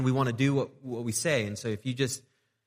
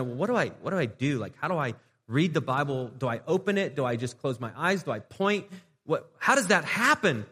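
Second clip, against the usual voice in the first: rising higher and louder, baffled; confused questioner; 3 semitones higher, 4 dB louder than usual. Retold or imitated. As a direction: play the lost newcomer who has no clue how to read the Bible. Confused churchgoer voiced, asking how.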